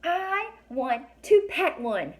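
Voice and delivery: put-on a kid begging to touch the unicorns; eager girl voice. A narrator's reading. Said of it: "Alex said".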